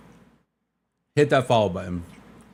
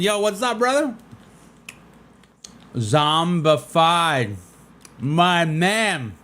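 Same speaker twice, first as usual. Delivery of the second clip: excited greeting; 7 semitones higher, much slower than usual. Real, not acted. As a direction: cheer your buddy on, rising higher. Hyped greeting to streamer friend.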